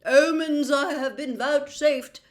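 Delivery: mystical seer. A narrator's reading. Trelawney explaining herself to Harry, slow and mystical. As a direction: float the words like a dreamy prophetess.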